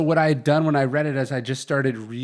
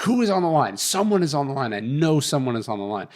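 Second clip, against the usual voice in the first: suspicious boss; 3 semitones higher than usual. Retold or imitated. Retelling the boss demanding who's listening, a mild mock accusation. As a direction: bark out the boss's suspicion, partly imitated. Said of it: "he's like".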